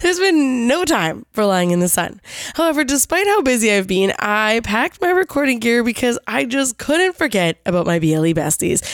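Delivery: hoarse from being sick; a bit run down and hoarse; raspy voice. Real, not acted. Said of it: "excuse my raspy voice".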